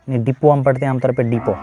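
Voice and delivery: डिपो said "dipo" both times, t silent. Shown as a demonstration. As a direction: land on डिपो ending in a clean o. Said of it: "तो ये टी इसका silent है".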